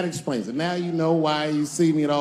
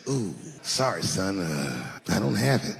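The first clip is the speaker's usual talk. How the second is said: sheepish dad; 11 semitones lower, 3 dB quieter, slower than usual. Retold or imitated. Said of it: "And my dad said".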